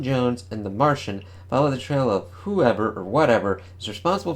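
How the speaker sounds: clickbait video narrator. Acted. Reads comic solicitation text.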